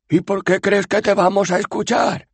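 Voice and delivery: high, mocking question; sneering citizen. Citizen mocking the girl, high and sarcastic. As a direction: scoff at her.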